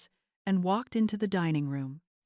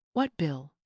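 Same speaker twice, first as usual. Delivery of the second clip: sputtering; 2 semitones lower than usual. A narrator's reading. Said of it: "Stan sputtered".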